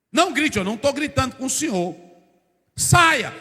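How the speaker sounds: rising to a loud order on Saia; firm retort. Retold or imitated. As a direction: stand firm, then order him out loudly. Student's retold reply to professor.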